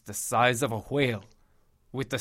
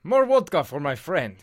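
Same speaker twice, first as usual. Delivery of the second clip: raised voice across the bar; calling out; 5 semitones higher, 4 dB louder than usual. Acted. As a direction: call the barman over, a bit louder. Calling to barman for drinks.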